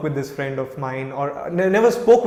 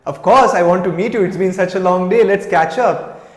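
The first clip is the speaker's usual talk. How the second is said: louder, bright, eager yes; eager acceptance; 2 semitones higher, 5 dB louder than usual. Retold or imitated. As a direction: jump at the invitation. Eager reply to the friend.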